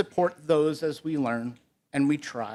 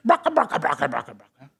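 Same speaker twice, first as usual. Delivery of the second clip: hen clucking; 3 semitones lower, 3 dB louder, faster than usual. A narrator's reading. Hen has a go at crowing, fading clucks. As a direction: cluck busily, then fade. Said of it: "even the hen".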